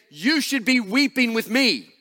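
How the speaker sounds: a hint of wounded self-pity, slowing at the end; lightly acted, asking for sympathy; self-pitying demand. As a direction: mildly voice the inner demand to be pitied. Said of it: "everything in us wants us to say".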